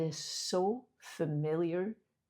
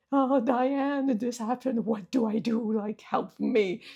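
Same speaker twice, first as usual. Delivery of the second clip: higher, pleading cry for help, reliving the panic; panicked plea; 3 semitones higher, 4 dB louder than usual. Retold or imitated. Calling her friend Diane for help after the mail shock, panicked. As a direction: beg a friend for help, voice lifted and strained. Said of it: "very upset, saying".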